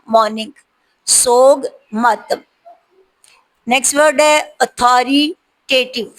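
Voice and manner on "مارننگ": مارننگ said as "moning", with no r; correct pronunciation. Shown as a demonstration. Teacher giving the correct مارننگ after the wrong one, r silent. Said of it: "مارننگ نہیں پڑھنا".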